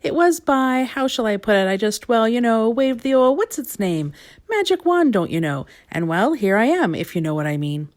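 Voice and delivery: a hint of a dotty wizard voice; wordy wizard. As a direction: bumble through it like a dithery old wizard. Wizard character explaining himself.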